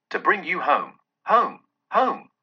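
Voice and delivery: put-on a little girl's high, gleeful voice; bubbling with glee at bringing him home; gleeful child. A narrator's reading. Little Fan coaxes her brother home in a high, gleeful voice. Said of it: "brimful of glee".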